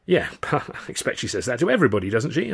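laughing scoff, pitch rising at the end; mock the fortune teller's line; amused, dismissive scoff. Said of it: "I scoffed".

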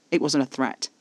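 plain reading voice

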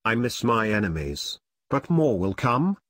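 loud Reaper lament with a touch of sorrow; sad, sighing Reaper. A narrator's reading. Reaper admits to Vivian he misses enemies, mildly sad. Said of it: "the Reaper sighed sadly".

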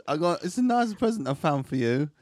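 put-on Italian auntie voice; lightly sung Italian lilt; Italian accent. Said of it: "shall I do a voice".

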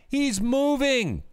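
high, slow mocking punchline; mock-surprised high delivery; sarcastic reveal. Real, not acted. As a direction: drag it out with scorn. Sarcastic punchline about mayor.

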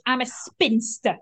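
slow, proudly owning it; proud declaration. Retold or imitated. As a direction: declare it with dignity, slowly. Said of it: "It's the way she said it with such".

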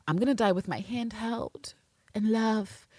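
breathy mock whisper of smug pride; slow gloating whisper. Mocking Dasha's smug taunt.

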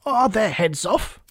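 high, drawn-out royal call; shouted. A narrator's reading. Queen questions her soldiers, high shout. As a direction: call out the demand shrilly. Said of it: "shouted the Queen".

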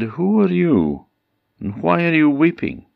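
put-on storyteller's high-pitched old man; old man's questioning. A narrator's reading. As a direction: ask it high and projected, as a character in a tale. Old man questions weeping princess.

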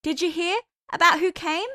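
high and loud, raising her voice over the music. A narrator's reading. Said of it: "she repeated herself louder".

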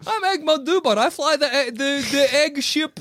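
goofy high-pitched alien voice; Egg Mondubot voice. Acted.

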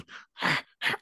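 imitated creature huffs. Voices the creature that then flees.

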